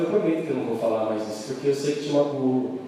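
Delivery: mais grave e suave, arrependida; promessa sincera. Retold or imitated. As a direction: prometer com voz baixa e sincera. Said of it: "ela falou". (esposa prometendo ao marido, voz grave e suave)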